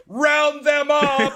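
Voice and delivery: high, loud, drawn-out German-style order; mock German command. Host showing how German love talk sounds, mock German shouted command. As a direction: bark it as a hammed-up German officer. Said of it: "it sounds like".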